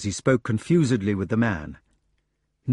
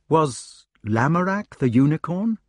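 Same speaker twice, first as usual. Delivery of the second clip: gentle; 6 semitones higher than usual. A narrator's reading. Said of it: "asked the king gently".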